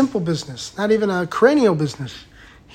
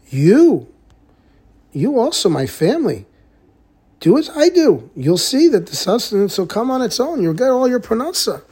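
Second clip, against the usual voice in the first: earnest urging; 5 semitones higher than usual. Retold or imitated. Man urging family to join him.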